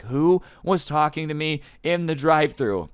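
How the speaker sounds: high, measured demand, imitating her rage; angrier customer. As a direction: act out her mounting anger. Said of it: "she's just getting angrier".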